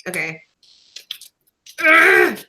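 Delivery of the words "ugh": frustrated groan. Real, not acted. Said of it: "I was trying to save the sticker".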